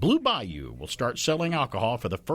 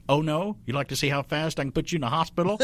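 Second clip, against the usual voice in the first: DeForest Kelley impression; 4 semitones higher than usual. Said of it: "Like DeForest Kelley".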